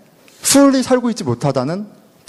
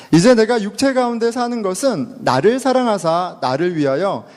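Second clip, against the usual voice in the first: slow, measured reading of Galatians; scripture reading; slower than usual. Acted. Pastor leading the congregation in reading Galatians, slow measured reading. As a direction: read the verse aloud together, slowly and evenly.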